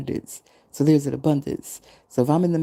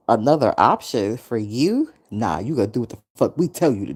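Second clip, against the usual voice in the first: lower, fast, bossy boss; mock bossy boss; 4 semitones lower than usual. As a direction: play the bosses as blunt and pushy. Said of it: "they didn't say it like that".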